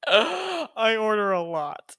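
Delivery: words dissolving into a laugh. Real, not acted. Bragging about her shopping, said through laughter. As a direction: laugh it out, slow.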